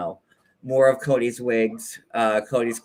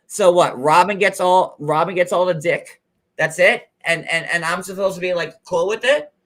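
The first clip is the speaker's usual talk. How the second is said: furious sassy rant; 4 semitones higher, 3 dB louder than usual. Retold or imitated. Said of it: "Christine's like".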